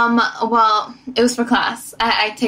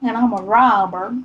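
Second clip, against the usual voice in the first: put-on Southern country girl. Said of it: "country girl".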